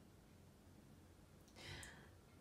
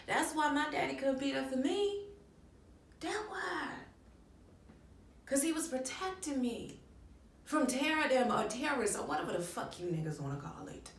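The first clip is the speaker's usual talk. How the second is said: heated outburst; 5 semitones higher, 3 dB louder than usual. Acted. Acted angry outburst at another person.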